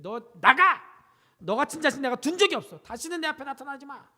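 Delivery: a hint of an angry father shouting; mock scold the son out the door. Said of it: "꾸짖으면서 얘기했어요".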